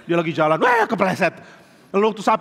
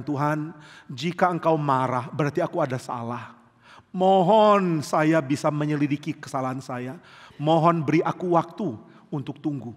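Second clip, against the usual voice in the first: humble prayer; 4 semitones lower than usual. Retold or imitated. David prays in repentance.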